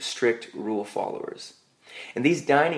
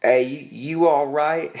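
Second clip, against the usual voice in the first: slightly raised, slow stranger checking in; hesitant, drawn-out check on a stranger, lightly acted; lightly voiced smoker lady; 4 semitones higher, 4 dB louder, slower than usual. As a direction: imitate a concerned passerby, a little higher. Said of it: "this lady smoking cigarettes".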